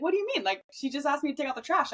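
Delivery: high, puzzled what do you mean; teen daughter surprised her friends didn't follow; innocent surprise. Retold or imitated. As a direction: act baffled that anyone is confused. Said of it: "And I'd be like".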